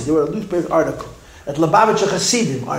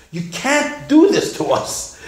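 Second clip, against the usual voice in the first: crying plea; 8 semitones higher, slower than usual. Retold or imitated. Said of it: "started to cry and scream".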